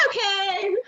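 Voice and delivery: high, drawn-out holler; breezy high shouted reply; calling back. Acted. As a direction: call it back on the way out. Partner answers while running out.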